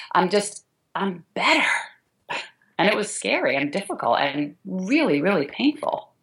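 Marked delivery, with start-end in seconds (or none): 0.1-1.7 tearful. Real, not acted. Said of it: "when the tears came".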